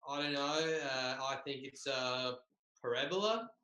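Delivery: hesitant put-on Australian accent; halting mock Australian, rising at the end. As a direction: answer in a fake Australian accent, unsure. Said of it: "reading this in an Australian accent".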